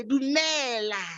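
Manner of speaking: Dumela said slowly, du-ME-la; Sesotho greeting. Shown as a demonstration. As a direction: Dumela spoken carefully as a model word. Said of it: "we say".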